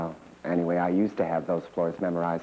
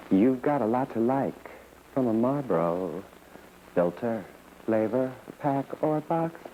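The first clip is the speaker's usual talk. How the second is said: put-on old ad slogan, pitched up and climbing to the end; commercial slogan; 6 semitones higher than usual. First Marlboro spokesperson reciting her slogan, lilting ad read. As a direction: lilt it like a cigarette jingle, rising on the last words.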